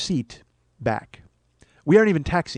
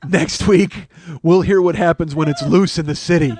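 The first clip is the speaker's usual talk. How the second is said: louder dramatic cliffhanger; mock teaser announcer; 5 dB louder than usual. Comedian teasing next episode, mock-dramatic announcer. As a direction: tease next week like a monster serial.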